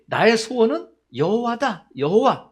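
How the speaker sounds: loud, high proclamation; emphatic declaration. Acted. Preacher proclaims David's one wish to the congregation, loud emphatic declaration.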